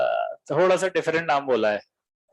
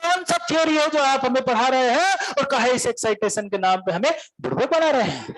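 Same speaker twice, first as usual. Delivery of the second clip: shouted Bihari complaint; 5 semitones higher than usual. Retold or imitated. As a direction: hurl the line at the teacher. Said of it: "Bihari खड़ा होता". (चिल्लाकर दोहराया गया सवाल)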